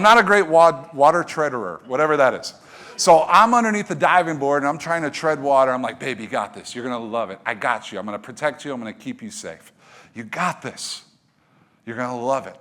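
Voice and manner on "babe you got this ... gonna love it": reassuring. Acted. Dad reassures scared daughter from below.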